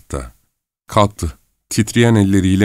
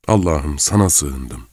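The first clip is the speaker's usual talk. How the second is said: fading scared murmur; repeated frightened prayer; 5 semitones lower, slower than usual. Acted. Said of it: "Bu cümleyi kısa aralıklarla birkaç kere tekrarladı".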